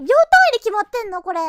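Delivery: loud, disbelieving cry; real shock at split-second timing; amazed outburst. Real, not acted. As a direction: blurt it out in real astonishment. Amazed at timeline, much louder.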